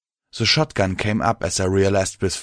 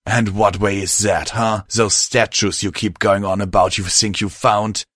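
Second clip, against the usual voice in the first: challenging, only slightly raised voice; mild shout. Acted. Host doubting the mare's statues, mildly shouting. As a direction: push back with mild heat. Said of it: "my host shouted".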